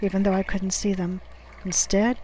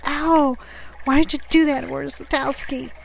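high, hurt and indignant outcry; pained protest; 5 semitones higher than usual. A narrator's reading. Sailor struck on the wrist, indignantly protesting. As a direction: cry out at the blow, then demand why.

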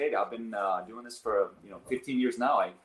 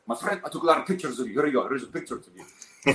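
put-on light Arab accent; 3 semitones higher, 3 dB louder than usual. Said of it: "he's an Arab, so he has his accent".

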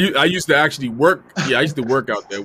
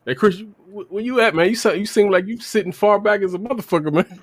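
raised high calling voice; yelling across the room; 8 semitones higher than usual. Real, not acted. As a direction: call out to someone far off. Calling to distant guest upstairs.

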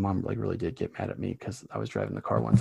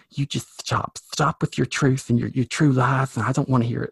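scolding mom; 3 semitones higher, 5 dB louder than usual. Retold or imitated. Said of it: "my mom telling me".

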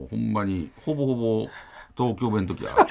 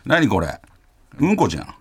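put-on cool Tokyo kid; 5 semitones higher than usual. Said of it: "東京の子".

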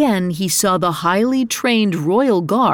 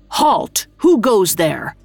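calling out; slower than usual. Acted. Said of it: "Ito called into the darkness".

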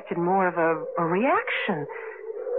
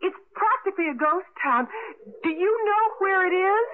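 raised voice on the phone; 6 semitones higher than usual. Acted. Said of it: "you'll have to talk louder".

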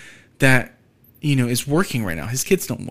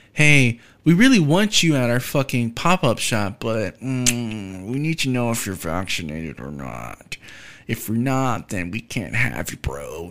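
mock employer voice; 2 semitones lower than usual. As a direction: sneer it out like a gatekeeping boss, trailing off. Mocking an employer demanding vaccination.

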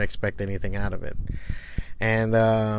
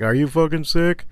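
alarmed stranger; 5 semitones higher than usual. Retold or imitated. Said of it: "they're just like".

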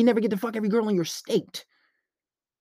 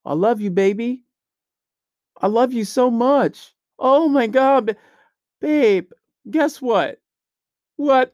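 mock lovesick boyfriend; 2 semitones higher, slower than usual. Mocking a clingy guy fawning over his girl, hammed-up whiny voice. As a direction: gush like a needy boyfriend. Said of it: "You sound like a bitch right now".

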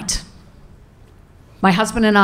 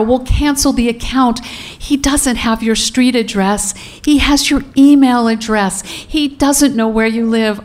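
tender reassurance; 5 semitones higher than usual. Retold or imitated. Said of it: "I hug her and I cradle her and I tell her".

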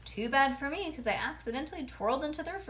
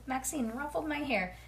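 ordinary delivery

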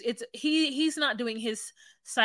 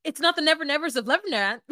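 blunt wife; 4 semitones higher, 4 dB louder, faster than usual. Retold or imitated. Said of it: "she's like".

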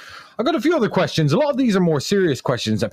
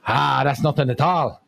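lightly put-on Irish voice, mostly pitched up; joke Irishman; 3 semitones higher than usual. Comic as the Irishman outdoing the others, hammed-up Irish voice. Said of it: "And the Irishman says".

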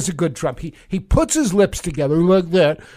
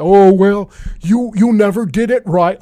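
Trump interjecting; 4 dB louder than usual. Acted. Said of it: "a very bad impression of the president".

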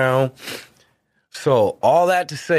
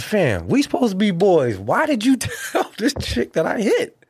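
pleading with friend; 10 semitones higher than usual. Retold or imitated. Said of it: "I said".

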